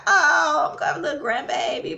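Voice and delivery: quick, gushing grandmotherly delight; delighted grandma. Retold or imitated. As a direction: mimic a grandma gushing over a baby. Delighted grandmother rubbing belly, retold.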